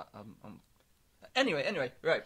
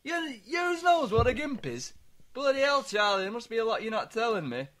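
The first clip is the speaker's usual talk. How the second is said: louder, slowed-down dad impression; dad's voice; 4 dB louder than usual. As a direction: play the shocked old father. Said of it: "He's like".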